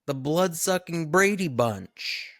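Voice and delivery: high, loud sarcastic quip; a hint of mocking Edgar; Edgar's sarcastic line. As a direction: toss it off with sarcasm. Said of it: "a great Edgar line".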